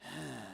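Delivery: imitated huffy sigh; mimicked sigh at a fussy child; disapproving sigh. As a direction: let out a short, scowling breath. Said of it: "somebody will do this".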